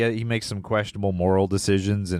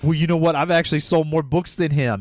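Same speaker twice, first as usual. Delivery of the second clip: mock indignant, higher-pitched boast; frustrated outburst; 6 semitones higher than usual. Kids' author insulted by a Stephen King comparison, frustrated imitation. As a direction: imitate a wounded author blurting it out. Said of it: "I could feel his frustration".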